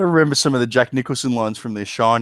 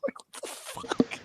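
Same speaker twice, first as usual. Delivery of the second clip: disbelief; 14 dB quieter, slower than usual. Real, not acted. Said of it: "disbelief after laughing".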